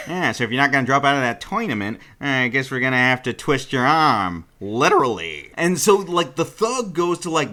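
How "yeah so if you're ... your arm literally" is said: Ginji's voice. Acted. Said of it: "That's Ginji's voice now".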